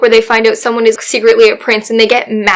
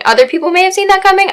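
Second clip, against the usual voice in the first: sarcastic aside; 9 semitones higher, much faster than usual. Real, not acted. Quick ironic aside.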